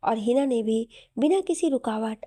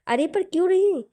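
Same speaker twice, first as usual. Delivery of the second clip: high, louder playful why not; teasing protest; 7 semitones higher, 6 dB louder than usual. Acted. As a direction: coax her out playfully. Aseem teasing, pressing her.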